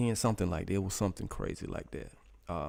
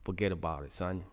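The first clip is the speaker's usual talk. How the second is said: lightly put-on New York accent; New York imitation. Streamer joking with viewers, mock New York accent. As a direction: toss it off like a mock New Yorker. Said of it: "That's my New York imitation".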